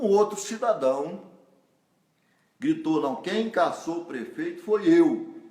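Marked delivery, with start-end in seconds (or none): 3.0-5.4 slow, louder mock announcement; a citizen loudly claiming the blame. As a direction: proclaim it to the whole bakery. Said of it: "bem alto".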